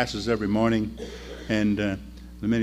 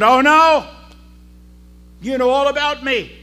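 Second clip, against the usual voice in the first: high, loud cry of astonishment; surprised; 13 semitones higher, 7 dB louder than usual. Acted. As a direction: gasp it out, amazed she is known. Woman realizes Jesus knows her.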